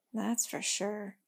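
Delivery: soft, slow murmur. Acted. Girl agreeing with the tree, soft slow murmur. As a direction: quietly agree to herself. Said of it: "murmured the girl".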